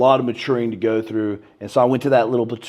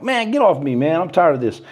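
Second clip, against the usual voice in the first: disappointed brush-off; 3 semitones higher than usual. Retold or imitated. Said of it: "disappointed, bro".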